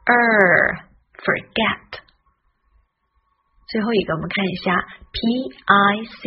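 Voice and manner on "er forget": long "er" with a curled tongue. Shown as a demonstration. Teacher showing the OR sound, curled-tongue r. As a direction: curl the r in "er" and "forget". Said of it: "O R也是卷舌".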